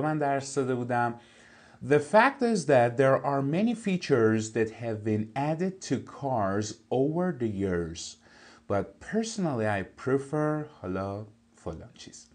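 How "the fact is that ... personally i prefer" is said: slow, careful reading of an English text; slow textbook reading. Shown as a demonstration. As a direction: read each word out clearly for the class. Teacher reads English text aloud. (خواندن آهسته و شمردهٔ متن انگلیسی)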